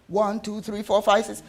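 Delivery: put-on quick, run-together child's counting; rushed counting. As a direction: rattle off the numbers. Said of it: "rushing through my counting from one to ten".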